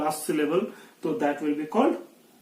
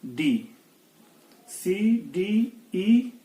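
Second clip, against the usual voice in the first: spelled letters; much slower than usual. Shown as a demonstration. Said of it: "सी हम चलेंगे".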